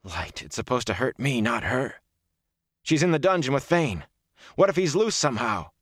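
urgent, high-pitched worry; alarmed. A narrator's reading. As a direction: let worry push the pitch up. Rand panics for Egwene's safety.

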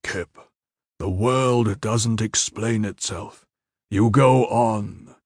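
slow, level and steady; calm, even commander's voice. A narrator's reading. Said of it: "But his voice was level".

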